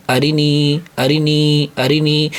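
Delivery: اری نی with a short ری and a long نی; joined word. Shown as a demonstration. Teacher showing why نی is stretched, with a long نی. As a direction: hold the نی, clip the ری. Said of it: "کیونکہ حمزہ کے اوپر زبر ہے".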